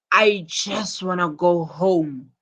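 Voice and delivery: "just" leaned on hard in a slowed sentence; stress on just. Shown as a demonstration. Teacher giving pupils an example of emphasis, stress on "just". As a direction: punch "just", drawing the sentence out. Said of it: "the emphasis is on just".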